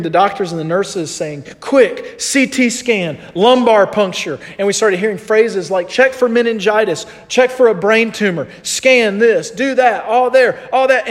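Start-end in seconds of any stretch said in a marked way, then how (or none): 1.6-4.4 imitating panicked medics. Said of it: "they started panicking just like us". 5.9-11.1 higher, urgent list of retold orders; imitating panicked medics. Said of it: "they started panicking just like us".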